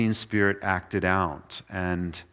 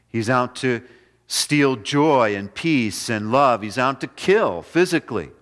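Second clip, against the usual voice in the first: louder, driving sermon voice; fiery preaching; 3 semitones higher, 4 dB louder than usual. Acted. Pastor warning the church about the devil, forceful preaching. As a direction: preach it hard to the congregation.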